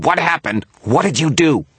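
high, loud, panicked shriek; frantic screamed questions. A narrator's reading. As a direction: demand answers at a scream. Victor screaming in berserk panic.

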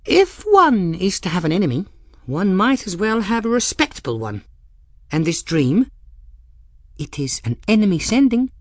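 high, loud, dramatic pronouncement; grand declaration. Acted. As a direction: declaim it with relish.

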